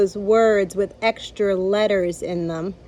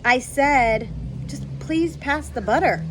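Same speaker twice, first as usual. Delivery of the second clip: low grim voice; 3 semitones higher than usual. Acted. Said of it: "in a low, grim voice".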